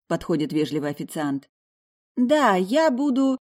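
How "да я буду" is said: slow, drawn-out start; slowly. Acted. Heroine starting her order to the waiter, slowly. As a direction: draw the words out leisurely. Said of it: "начинаю медленно".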